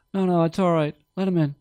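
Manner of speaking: put-on high, loud drunken pleading; hammed-up drunk calling out from the stage; imitating drunk promoter. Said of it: "later on he's really drunk".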